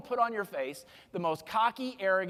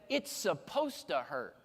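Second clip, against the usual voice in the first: slow doctor quote; 5 semitones lower, 5 dB quieter, slower than usual. Retold or imitated. Quoting the doctor's blunt line.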